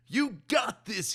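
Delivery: high, loud encouraging call. A narrator's reading. Friend repeating the phrase, loud and encouraging. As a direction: pump him up. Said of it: "he repeated".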